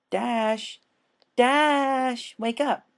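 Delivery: high, loud urgent pony voice; Pinkie calling Dash awake. Acted. Pinkie calls to the drugged Dash, high and urgent. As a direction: shake her awake with your voice.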